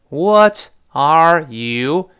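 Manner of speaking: WHAT, ARE, YOU said separately and slowly; word by word. Shown as a demonstration. Teacher showing the unlinked form, word by word. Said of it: "变成what are".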